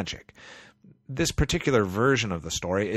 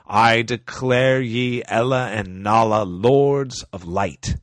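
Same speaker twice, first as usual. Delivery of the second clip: ancient wizard proclamation; 5 dB louder than usual. Acted. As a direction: intone it like an ancient king. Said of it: "in the ancient speech of wizards and knights".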